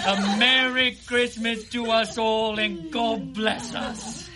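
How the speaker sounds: excited. Acted. Festive toast at dinner.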